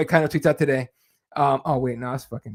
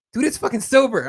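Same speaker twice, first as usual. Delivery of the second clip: mock shout; 7 semitones higher than usual. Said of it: "He goes".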